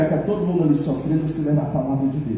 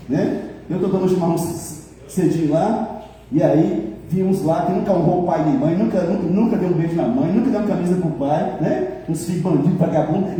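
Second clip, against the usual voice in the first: ordinary delivery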